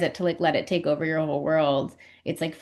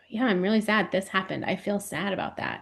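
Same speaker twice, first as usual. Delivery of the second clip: calm honest parent; 5 dB quieter than usual. Retold or imitated. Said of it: "just be like".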